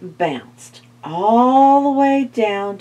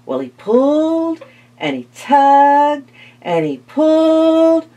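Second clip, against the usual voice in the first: straining; 6 semitones higher, 5 dB louder than usual. Acted. Straining to pull the pumpkin.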